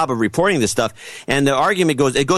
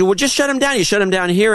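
mocking demand; 8 semitones higher than usual. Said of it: "and they said".

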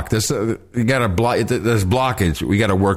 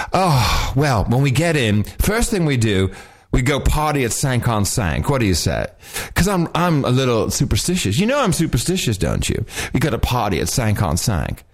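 lightly imitated socialite chatter; a hint of a grand star planning a party; Joan Collins. Joan Collins planning with her companions, lightly imitated. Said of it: "That was Joan Collins?".

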